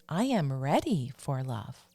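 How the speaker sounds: measured, deliberate affirmation; spaced-out self-affirmation, each repeat its own statement. Shown as a demonstration. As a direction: recite it firmly for listeners to repeat. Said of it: "affirmation that you can say to yourself".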